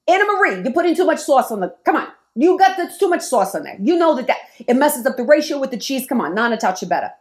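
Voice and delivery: lightly voiced husband scolding her about too much sauce; imitating her husband. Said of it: "I like to think that's how she talks".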